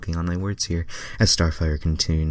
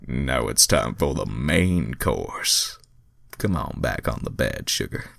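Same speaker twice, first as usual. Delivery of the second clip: lightly voiced Sonic; 5 semitones lower than usual. Reader voices Sonic's line.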